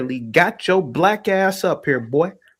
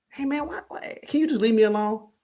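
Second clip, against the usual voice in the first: a lightly voiced, higher, pleading whine; mock whiny plea; 5 semitones higher, 5 dB quieter, faster than usual. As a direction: mimic the caller begging to be left alone. Mocking the caller's whining plea.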